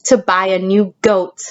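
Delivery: put-on gentle, measured storytelling to kids; storybook read-aloud. Teacher reading the story's ending to her class, storytelling voice.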